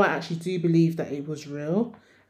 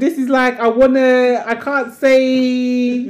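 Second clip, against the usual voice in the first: after laughing hard; 5 semitones higher, 7 dB louder than usual. Real, not acted. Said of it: "Rena's blushing".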